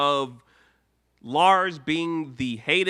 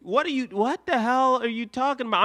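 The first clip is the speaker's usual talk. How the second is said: incredulous; 10 semitones higher than usual. Retold or imitated. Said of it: "I'm like".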